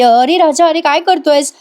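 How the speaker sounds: jolted awake, calling out; startled wake. Retold or imitated. Avni wakes startled and calls out to Raja. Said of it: "Avni दचकून जागी होतीये".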